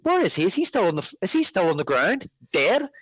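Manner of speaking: retold bafflement, pitch jumping up; mild mock bewilderment. Viewer asking himself about the scene, mildly baffled.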